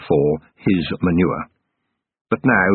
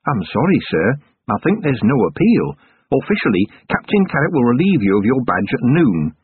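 a touch higher, apologetic dwarf; dwarf sergeant, sorry; 3 semitones higher than usual. Acted. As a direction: gently break the news as the dwarf. Narrator voices the dwarf sergeant.

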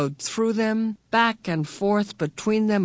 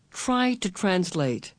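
urging; slower than usual. Acted. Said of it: "Missus Whatsit urged".

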